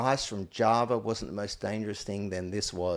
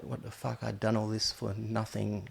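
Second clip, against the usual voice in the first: stunned quiet reaction; 6 dB quieter than usual. Retold or imitated. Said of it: "I was like".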